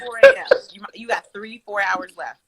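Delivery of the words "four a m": whispered aside. Retold or imitated. Mom retells late-night complaint.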